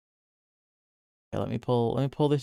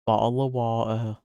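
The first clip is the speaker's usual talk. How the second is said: put-on British accent; 2 semitones lower than usual. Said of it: "I'll say the line".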